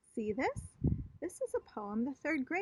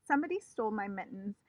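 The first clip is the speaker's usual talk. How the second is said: nervous rush; faster than usual. Acted. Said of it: "very nervous".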